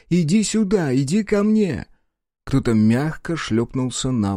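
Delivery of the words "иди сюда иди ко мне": tender call. A narrator's reading. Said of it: "нежный голос Лори".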